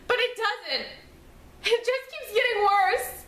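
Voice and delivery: grief building, pitch climbing as it goes on; rising anguish. Acted. Young mother telling Emmy her life feels over, rising anguish.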